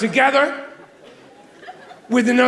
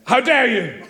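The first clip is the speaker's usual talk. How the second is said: Victorian theatre; 3 semitones higher, slower than usual. Retold or imitated. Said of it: "Straight from Victorian theatre".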